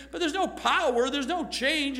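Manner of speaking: no power and no change, each no pushed out; stress on no. Real, not acted. Preacher to congregation, pressing on each no. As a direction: lean hard on each no in there's no power, there's no change.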